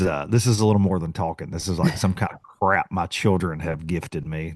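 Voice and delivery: scratchy sick voice, throat sore; raw voice. Real, not acted. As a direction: talk through a sore throat. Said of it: "little raw".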